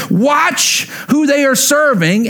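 slow ringing exhortation; emphatic call. Real, not acted. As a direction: press the point hard on the congregation. Preacher drives home his point.

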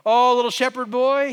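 a hint of a jeering giant; mocking taunt. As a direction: belittle the boy with a smirk. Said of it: "He's mocking him".

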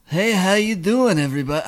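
lightly voiced character greeting; tentative character voice. Host testing a character on friends, lightly put-on voice. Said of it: "he kinda sounded like".

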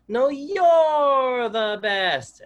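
put-on high, slow, loud child's shout; son's shout imitated. Son shouting back at dad from bed, high and loud. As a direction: belt it out like a little boy at bedtime. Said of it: "And then he'll repeat it".

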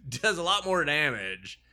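high, loud, slow Hulk smash through a laugh. Retold or imitated. Mock Hulk voice.

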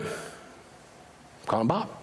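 slow, breathy hushed whisper. Retold or imitated. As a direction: whisper it secretly, slowly. Caller quietly dials Bob.

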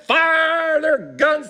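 high, slow shouted cue; stage shout; shouted chorus line. Retold or imitated. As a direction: call it out over the crowd.

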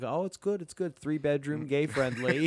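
high, eager showing-off voice; proud Michael impression. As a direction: brag about the condo, pitch up. Jim quoting Michael's condo pitch.

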